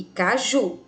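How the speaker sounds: "caju" with the weight on the final "ju"; stress on final syllable. Shown as a demonstration. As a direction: lean on "ju" at the end of "caju". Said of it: "e o ju, mais forte". ("caju" com a última sílaba, "ju", mais forte)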